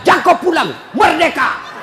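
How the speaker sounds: a loud, sharp mock yell with a laugh in it; a wife snapping at her husband to stay out, loud mock shout; nagging wife's yell. Playful imitation of a scolding wife. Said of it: "Maka dia bilang".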